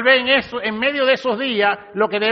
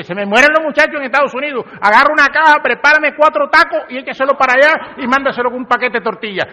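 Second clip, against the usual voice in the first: fast, louder rush of a worried mom; frantic mother; 3 semitones higher, 4 dB louder, faster than usual. Retold or imitated. Mother in Mexico hearing her son lost his job, fast and frantic. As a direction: rattle it off like a mother in a panic. Anxious mother reacting to son's news.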